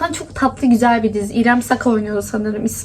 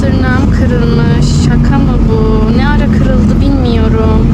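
louder, slow, can't believe it; exasperated disbelief; 7 dB louder, slower than usual. Real, not acted. Vlogger discovering her broken nail outdoors, loud exasperated disbelief. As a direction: let the annoyance spill out loud.

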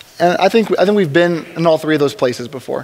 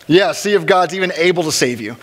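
mock challenge. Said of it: "like a challenge against God".

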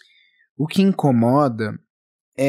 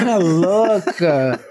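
laughing; 3 semitones higher, much slower than usual. Real, not acted. Laughing at the host's nude joke.

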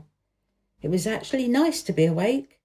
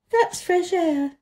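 delighted; 10 semitones higher, slower than usual. A narrator's reading. Mary opens window, delighted.

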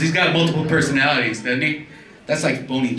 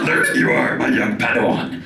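Star Wars mentor; 2 semitones lower than usual. Retold or imitated. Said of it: "Let's do some voices".

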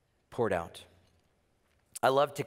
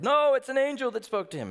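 high, louder awed insistence; excited bystander; 12 semitones higher, 6 dB louder than usual. Retold or imitated. Bystander in the crowd insisting to others, excited. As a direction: insist it was an angel.

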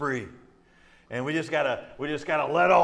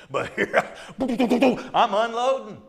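loud, high comic outburst; hammed-up tirade, high and loud; mock unloading; 7 semitones higher, 6 dB louder, much slower than usual. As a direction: fire away like a machine gun, laughing. Acting out unloading on his wife.

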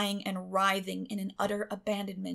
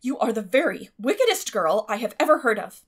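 louder, stern rebuke; stern scolding; 10 dB louder than usual. A narrator's reading. Guardian scolds the girl, stern and loud. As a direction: scold her hard.

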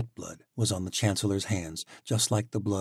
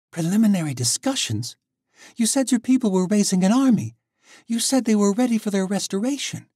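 much higher and louder, indignant; outraged shout; 13 semitones higher, 7 dB louder than usual. Acted. Tori throws Alec's broken promises back at him, outraged shout.

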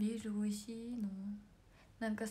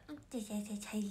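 mimicked sneeze; 4 dB quieter, faster than usual. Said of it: "みたいな感じ".

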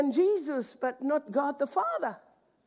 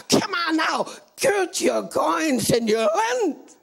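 God's firm command; slower than usual. Retold or imitated. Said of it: "The Lord says to me".

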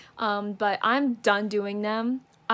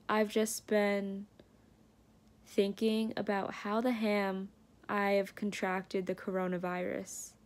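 quietly glum, much softer, sighing it out; glum and low-key; 2 semitones lower, 6 dB quieter than usual. Real, not acted. Vlogger alone in quarantine, telling viewers about her wasted weekend, softly glum. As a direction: let the gloom sit in every word. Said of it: "documenting my sadness".

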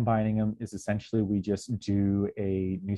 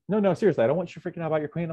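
mock insistent apology; 8 semitones higher, 3 dB louder, much faster than usual. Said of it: "And they're like".

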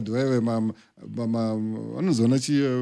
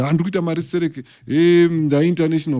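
hammed-up boast, higher and louder, slowing on Serek; mock bragging artist; 4 semitones higher, 4 dB louder than usual. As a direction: show off like a fake star with a high, louder voice. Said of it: "achinyeba kuti".

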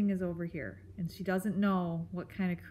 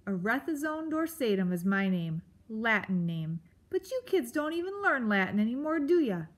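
mildly grumpy, self-important creature; grumble, speeding up and climbing into a jab; Aerith; 3 semitones higher than usual. Acted. Grump lectures kids about Latin, scornful.

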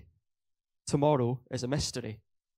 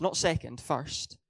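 Not second raised, then first pressed down firmly; stress on first; 4 semitones higher, slower than usual. Real, not acted. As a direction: set second against first and land on first. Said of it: "through seeking first".

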